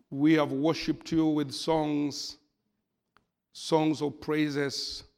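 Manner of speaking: soft, earnest pastor's prayer. Acted. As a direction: pray gently for the congregation. Leads congregation in prayer.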